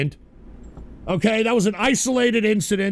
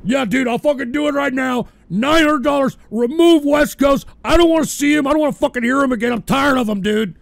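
loud, high imitated insistence; mock angry demand; 4 semitones higher, 4 dB louder than usual. Streamer voicing Yak Ass demanding removal. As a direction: push hard like the fed-up donor. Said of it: "I was like".

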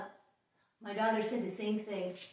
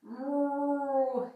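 cat meow. Pretend. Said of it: "And cat".

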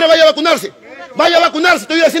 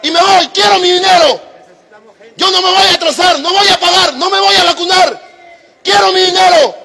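loud, higher, demanding yell; furious shout; 3 semitones higher, 3 dB louder than usual. Real, not acted. Customer shouting his demand for his money, real angry yell. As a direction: bellow it at the whole bank.

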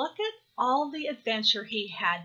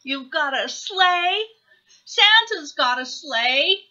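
put-on higher, louder childish insistence; lifted, insistent little voice; mild wail; 5 semitones higher, 8 dB louder than usual. A narrator's reading. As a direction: argue like a little hare. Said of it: "Baby Hare wailed".

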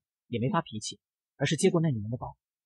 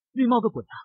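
higher, louder angry retort; exasperated outburst; 7 semitones higher, 4 dB louder than usual. A narrator's reading. Fed-up friend snapping at the jealous boyfriend, loud and angry. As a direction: snap back in disbelief, fed up. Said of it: "几然忍无可忍".

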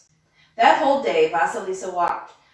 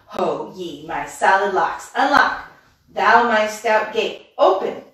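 loud, slow witch's command; witch shouting; 4 dB louder, slower than usual. Acted. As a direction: call out to the gate like a witch.

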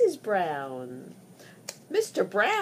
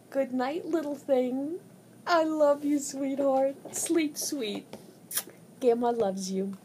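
pillow talk. Real, not acted. Grandmother says goodnight to baby.

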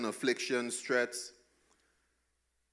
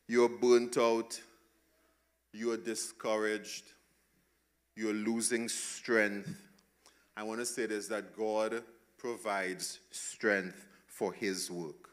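tender reassurance; 3 semitones lower than usual. Real, not acted. Comforting the tired.

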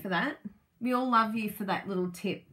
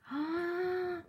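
delighted gasp; 9 semitones higher, 3 dB quieter than usual. Real, not acted. Admiring the packaging box.

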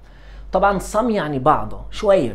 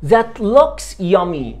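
slow, higher, louder; slow eager compliment; 5 semitones higher, 5 dB louder, much slower than usual. Shown as a demonstration. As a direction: savour each word of praise. Teacher models excited compliment slowly. (إعجاب بطيء ومتحمس)

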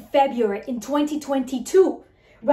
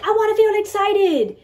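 mock excited; 7 semitones higher, 5 dB louder than usual. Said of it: "a lot of you are like".

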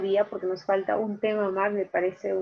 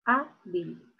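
Hábil split as HÁ, bil; stressed syllable; 4 semitones lower than usual. Shown as a demonstration. Teacher settling where the force falls, lower voice with HÁ stressed in Hábil. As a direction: separate Hábil, leaning on HÁ. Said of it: "Ahí está la mayor fuerza de voz".

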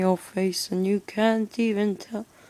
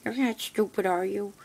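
higher, lightly voiced nagging parent; mocking parent voice; 4 semitones higher than usual. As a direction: parody a preachy parent. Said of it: "parents, they're always like".

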